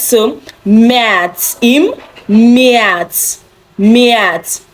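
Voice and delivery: März with an air-like ä; German März. Shown as a demonstration. Teacher drills März for class. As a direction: repeat März, open ä. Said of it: "A umlaut sounds air in words".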